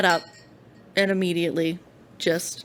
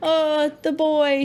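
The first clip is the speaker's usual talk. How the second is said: mock grand voice; 9 semitones higher, 5 dB louder, much slower than usual. Teasing nickname for friend.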